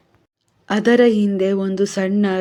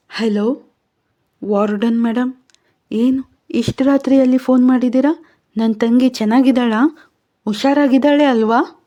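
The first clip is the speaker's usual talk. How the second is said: higher, quicker anxious questions; worried sister; 4 semitones higher than usual. Acted. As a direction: fear rising as she asks. Manya worried about sister, late call.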